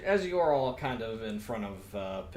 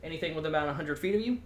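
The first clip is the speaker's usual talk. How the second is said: Pippi voice. Acted. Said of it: "my Pippi voice".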